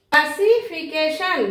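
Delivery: ক্লাসিফিকেশন slowly, as one joined word; slow word demo. Shown as a demonstration. Teacher presenting a five-syllable word, slow and joined. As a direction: stretch out ক্লাসিফিকেশন, every syllable clear. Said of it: "পাঁচটি শব্দাংশ".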